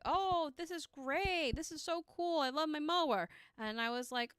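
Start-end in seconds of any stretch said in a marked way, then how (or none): 0.0-3.3 mock excitement. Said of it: "he's like".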